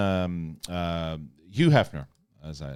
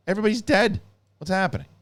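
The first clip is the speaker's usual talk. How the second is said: higher, louder alarmed mock panic; a retold cry of alarm, lightly hammed up; 11 semitones higher, 4 dB louder than usual. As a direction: act out a startled character's panic. Panicked character after a death.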